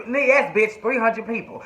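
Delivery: high, emphatic mock comeback; exasperated insistence. Exasperated confirmation of the number, acted.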